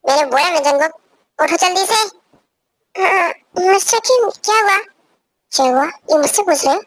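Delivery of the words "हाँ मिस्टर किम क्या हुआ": tearful. Acted. Woken partner answers, crying.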